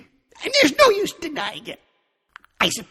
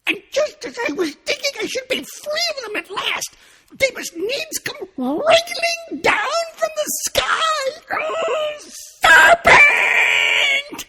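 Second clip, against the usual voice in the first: high, loud rising shriek, slow in places; 10 dB louder, slower than usual. Acted. Pigeon shrieking at serpents from the sky. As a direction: build to a furious squawk. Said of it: "raising its voice to a shriek".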